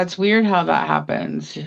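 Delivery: normal talking voice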